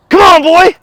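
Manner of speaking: high, loud call to the dog; excited call. Real, not acted. Calling the dog into the frame, high and loud. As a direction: call him in with real excitement.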